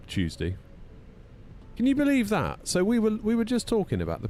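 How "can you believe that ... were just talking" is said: outraged exclamation; indignant outburst; incredulous. Real, not acted. Outraged about TikTok.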